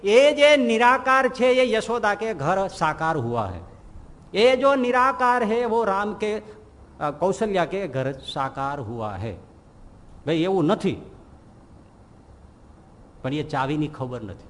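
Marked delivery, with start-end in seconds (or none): 0.0-9.3 slow, raised, sing-song Hindi preaching; mock the storyteller's solemn recital; imitating a katha preacher. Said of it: "શું કહે?". (ધીમા, ઊંચા સૂરે કથાકારની નકલ)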